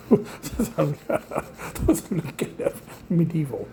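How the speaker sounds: slow, whispered through laughter; laughing whisper. Real, not acted. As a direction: giggle it under your breath. Dentist tools, laughing whisper.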